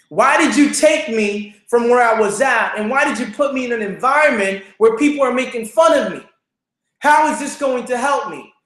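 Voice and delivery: retold plea from the bathroom floor; anguished prayer. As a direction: cry out to God in hurt. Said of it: "and I said".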